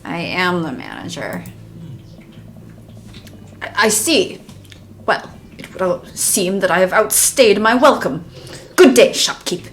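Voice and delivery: lightly voiced affronted gentleman, emphatic key words; haughty customer. Affronted customer leaving the shop, lightly pompous. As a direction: play a mildly pompous, offended customer.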